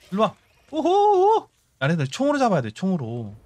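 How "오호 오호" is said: high taunting hoot. Real, not acted. Taunting spiders.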